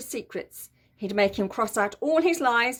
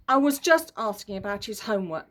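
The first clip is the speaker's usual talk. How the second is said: innocent protest. Acted. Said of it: "protested Henry innocently".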